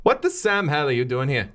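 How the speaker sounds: lightly voiced Irish prisoner; put-on Irish accent. Prisoner confronting the detective at her bars, put-on Irish accent. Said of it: "She was Irish".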